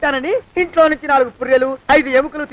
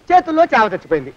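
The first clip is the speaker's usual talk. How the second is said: ordinary talk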